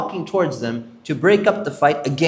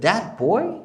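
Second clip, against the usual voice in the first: mad disbelief; 5 semitones higher than usual. Retold or imitated. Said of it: "He was really mad".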